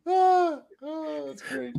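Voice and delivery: high, squealing laugh through the words; cracking up. Real, not acted. Host reacting to co-host's bad accent, real helpless laughter. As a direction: laugh helplessly while talking, voice shooting up.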